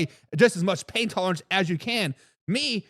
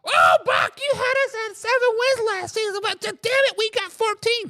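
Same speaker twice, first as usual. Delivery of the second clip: mock gloating fan; 12 semitones higher than usual. Mocking a gloating Vikings fan.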